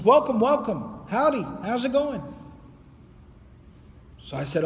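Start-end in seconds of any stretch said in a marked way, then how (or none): 0.0-2.2 higher-pitched, hearty acted greeting; hearty welcome. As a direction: greet travellers cheerily, pitched up. Acted greeting on meeting travellers.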